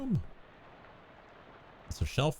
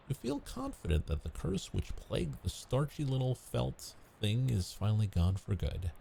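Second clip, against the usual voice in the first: game narration. A narrator's reading. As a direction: narrate the dream's end. Reads game narration aloud.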